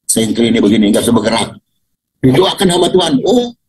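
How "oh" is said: high, drawn-out preacher's cry, higher and slow; sarcastic imitation of a showy healer praising God; mock faith healer. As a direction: ham up a fraud healer exulting over a miracle. Mocking a fake faith healer.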